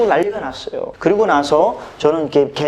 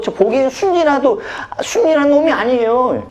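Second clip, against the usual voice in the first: high-pitched, aggrieved complaint; whiny, worked-up accusation; indignant tattling; 6 semitones higher than usual. Retold or imitated. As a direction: plead your case to the policeman, acting the wronged bully. Bully complains to police officer.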